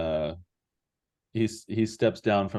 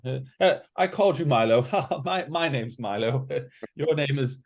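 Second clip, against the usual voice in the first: intimidated; 5 semitones higher than usual. Acted. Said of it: "he's intimidated".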